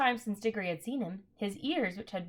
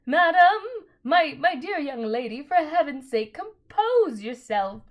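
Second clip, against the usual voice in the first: high, loud, crying panic; trembling scream; 6 semitones higher, 8 dB louder than usual. A narrator's reading. Uncle Andrew begging the witch, trembling scream. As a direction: shriek at her to calm down, terrified. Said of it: "in a sort of trembling scream".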